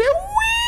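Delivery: high shriek turning into laughter; frightened scream. Real, not acted. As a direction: scream then laugh at a jump scare. Jump scare in game.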